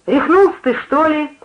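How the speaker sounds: high, scolding question; indignant shout. A narrator's reading. Giantess advancing on the one-armed man, indignant shout. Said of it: "закричала великанша".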